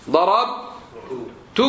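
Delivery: slow ḍarabtu with -tu ending; first person ending. Shown as a demonstration. Teacher conjugating for students, slow and careful ending. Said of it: "عن نفسي".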